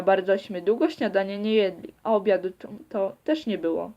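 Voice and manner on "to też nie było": ordinary delivery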